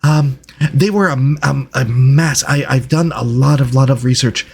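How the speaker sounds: halting delivery with excited little starts; eager, hesitant researcher. Acted. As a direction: play a flustered scholar greeting strangers. Game master voices Reginald.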